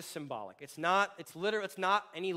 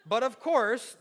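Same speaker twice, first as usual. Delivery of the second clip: laughing read; 6 semitones higher, 9 dB louder, slower than usual. Real, not acted. Reading Paul with a laugh.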